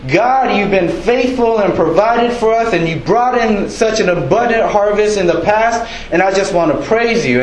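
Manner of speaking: offering thanks to God, earnest; mock prayer. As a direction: pray it up high and sincere.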